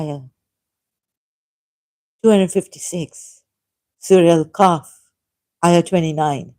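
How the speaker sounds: emphatic, measured read-out of a prepared text; reading aloud. Acted. Laying out a debate argument for listeners, emphatic reading.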